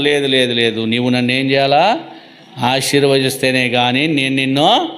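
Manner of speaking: low-pitched acted plea; imitating a tearful refusal, understated; tearful pleading, acted. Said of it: "కన్నీళ్లతో పోరాడినాడంట".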